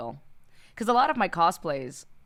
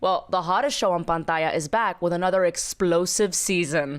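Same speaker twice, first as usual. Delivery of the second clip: upbeat co-host sponsor plug; lively promo read; scripted podcast ad read; 3 dB louder than usual. Acted. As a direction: sell the show with polished enthusiasm. Sponsor ad read by both hosts.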